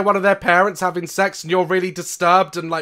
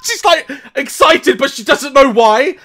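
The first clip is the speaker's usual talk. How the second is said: giggling, louder retold friend; laughing mock explanation; laughing through a quote; 7 semitones higher, 8 dB louder than usual. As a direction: voice the friend while cracking up. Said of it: "And her friend's like".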